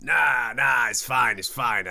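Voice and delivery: mock dismissive shout. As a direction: shout it away, then sink down. Creepy kid reassures Splinter.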